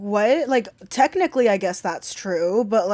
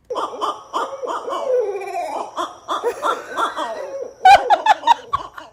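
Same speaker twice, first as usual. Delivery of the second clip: cackling laugh; 12 semitones higher, 3 dB louder than usual. Real, not acted. Cackling at comparison.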